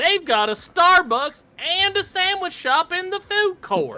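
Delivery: exaggerated dumb Southern accent, loud and very high. Recounting walking through the building and pointing things out, in a dumbass southern voice. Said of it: "in that dumbass southern voice".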